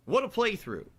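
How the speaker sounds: hammed-up southern hollering; put-on southern gentleman with high "oh boy" cries; Colonel Sanders. Host reacting to the game's end as Colonel Sanders, southern voice. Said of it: "me being in character for the game".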